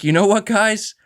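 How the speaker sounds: slow, drawn-out converted believer; a slow, mock-sincere believer's confession. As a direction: play a sudden convert, slowly savoring each word. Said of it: "I'll be like".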